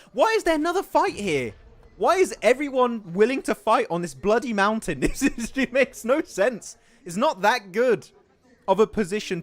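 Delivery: baffled exclamation. Real, not acted. Baffled by teams fighting on mountain.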